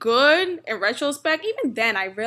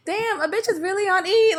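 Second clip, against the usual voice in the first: mock inner groan; 8 semitones higher than usual. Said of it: "thinking about my account like".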